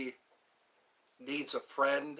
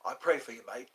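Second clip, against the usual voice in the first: put-on British accent; 3 semitones lower, 3 dB quieter, faster than usual. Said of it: "How's my British accent?".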